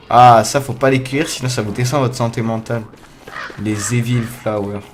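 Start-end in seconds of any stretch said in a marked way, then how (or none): 3.6-4.8 slow, home-made English accent. Real, not acted. Player names the flowers for viewers in a dubious English accent. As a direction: say the English name in a makeshift English accent. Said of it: "Un accent anglais est juste magnifique".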